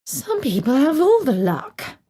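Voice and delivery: high, slow, sighing lament; a wistful, slow sigh of envy. A narrator's reading.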